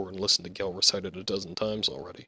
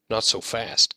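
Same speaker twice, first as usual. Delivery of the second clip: calling out; 6 dB louder, slower than usual. Acted. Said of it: "Gell called".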